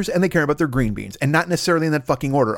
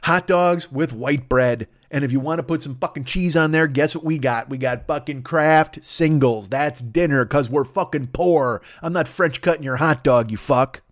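pitched-up mock hooker, snapping at him; hooker yelling. Hooker yelling at her client over dinner, mock angry. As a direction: play an irritated call girl lecturing her client. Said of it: "a hooker to yell at me like that".

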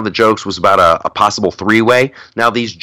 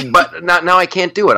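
pitched way up, nasal-free high squeak; Jordan Peterson attempt; 10 semitones higher than usual. Shown as a demonstration. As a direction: push the voice up high for the impression. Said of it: "I can't get my voice up high enough".

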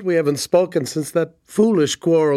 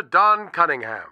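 smooth radio announcer. Shown as a demonstration. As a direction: announce your own name on air. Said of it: "Let's hear what I sounded like".

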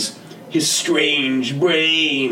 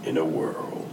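deep movie trailer voice; low, gravelly trailer narrator; 8 semitones lower, 8 dB quieter than usual. Shown as a demonstration. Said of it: "That was good".

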